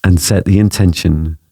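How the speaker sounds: calm, measured meditation voice with long pauses; unhurried phrases, leaving space after each; guided meditation. Acted. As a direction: guide the listener gently through each breath and image.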